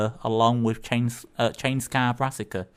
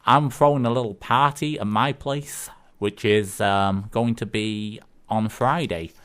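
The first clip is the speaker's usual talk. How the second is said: put-on amateur Yukon neighbour accent, a little lifted; half-managed Yukon accent for a joke; attempted Yukon accent; 2 semitones higher, 4 dB louder than usual. Neighbour invites lonely Bob to a party, rough Yukon accent. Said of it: "carry on with using the accent".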